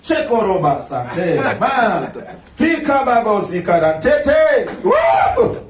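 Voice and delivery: hammed-up speaking in tongues; a worshipper faking tongues at the altar, mocked; mock fake tongues.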